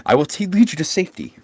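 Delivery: reassuring. Retold or imitated. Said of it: "walk up to the civilian... and say".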